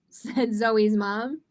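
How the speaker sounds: put-on lively storybook reading for kids; reading to children. A narrator's reading. Teacher reading a picture book to kids, animated storytelling. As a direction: read it like story time with children.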